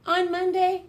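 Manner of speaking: high, loud storybook opener; bright announcer start; dramatic opening. A narrator's reading. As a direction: announce it like a big event.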